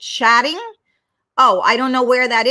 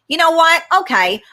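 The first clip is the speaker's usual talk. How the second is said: upbeat self-talk; 6 semitones higher, 4 dB louder than usual. Shown as a demonstration. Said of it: "Tell yourself".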